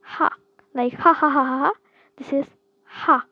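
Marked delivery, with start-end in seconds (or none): 0.0-1.7 louder airy ha, ha, ha; demonstrating the H sound; breathy ha. Shown as a demonstration. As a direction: push each ha out on the breath. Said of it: "H sound".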